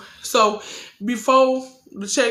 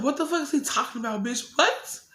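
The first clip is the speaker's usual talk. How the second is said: high, fast, incredulous comeback; retold outraged disbelief; 4 semitones higher, faster than usual. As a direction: fire back like the accusation is absurd. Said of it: "And I'm like".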